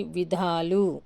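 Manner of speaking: drawn-out ధా in విధాలు; long vowel. Shown as a demonstration. Teacher showing learners the plural విధాలు, long vowel held out. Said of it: "దీర్ఘం వచ్చింది చూడండి".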